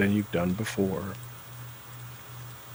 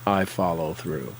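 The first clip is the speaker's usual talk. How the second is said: bolder affirmation. Shown as a demonstration. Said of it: "Say it again".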